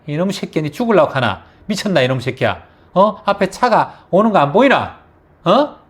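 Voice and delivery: high, loud, raging scolding; furious father yelling. Retold or imitated. Father furious at his son who ran toward a car, yelling. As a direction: yell at the boy in a burst of temper. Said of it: "이렇게 성질이 팍 나면서".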